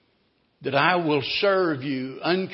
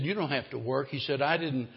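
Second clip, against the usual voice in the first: tender reassurance; 2 semitones lower than usual. Acted.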